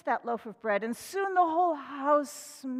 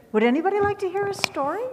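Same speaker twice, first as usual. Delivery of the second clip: higher, louder repeated call; 8 semitones higher, 8 dB louder, faster than usual. Real, not acted. Minister calling children again, higher and louder. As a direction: call again to get their attention.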